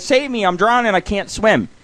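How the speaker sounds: mildly acted cartoon distress; cry for help. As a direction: plead for rescue as a drowning lizard. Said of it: "the lizard cries".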